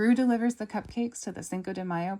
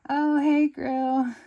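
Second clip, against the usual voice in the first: Lucy; 9 semitones higher, 9 dB louder, much slower than usual. Acted. Lucy tied to a rocket.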